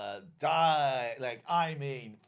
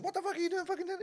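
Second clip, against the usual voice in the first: much higher, strained yell of a boss; mock angry boss; faster than usual. Club owner bollocking an overrunning comic, mock furious. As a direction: bark it like an outraged club owner.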